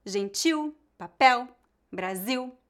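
"gentil, papel, Brasil" as careful examples, leaning on each ending; final-syllable stress. Shown as a demonstration. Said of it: "têm a tônica na última sílaba".

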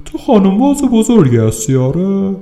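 high, mocking policeman's taunt; mocking cop. Cop teases the arrested man in a high mocking voice.

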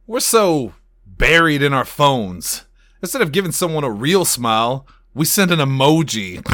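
mock-emotional monologue. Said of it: "The score keys up emotional piano music".

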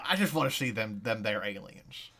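lightly put-on rural accent; a hint of a hick senator pleading. Senator begs to see aliens, light hick accent. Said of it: "I don't know why he has that accent".

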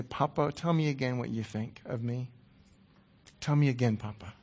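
soft, intimate plea, trailing to a breath; hushed prayer. Acted. To Papa, a hushed tender prayer. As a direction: speak it close, like asking a father.

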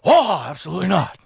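big drawn "Oh", then dropping away; mock celebrity impression; Al Pacino. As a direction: imitate a theatrical old film star. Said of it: "He's like, he's like".

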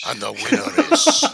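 hammed-up Irish announcer voice, laughing; mock Irish brogue, announcing the winner; mock Irish accent. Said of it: "I thought it was Irish".

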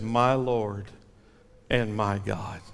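low, hushed words of awe; awed confession. Acted. Thomas, overwhelmed before Jesus, in hushed awe. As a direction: breathe it out in wonder.

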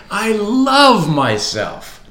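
slow, high, loud declaration. Shown as a demonstration. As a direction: proclaim it with full force. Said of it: "Come on, say it again".

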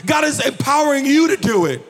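rising full-voiced preacher cadence; preaching. Pastor preaching to his congregation, full-voiced preaching. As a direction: preach it out to the church, calling for response.

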